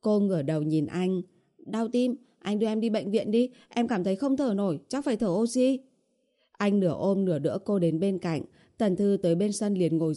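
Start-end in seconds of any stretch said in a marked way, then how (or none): 1.6-5.8 lightly voiced pleading young heroine; a higher character voice, mildly plaintive; complaining heroine. Runner begs boyfriend for hospital and oxygen, mildly plaintive.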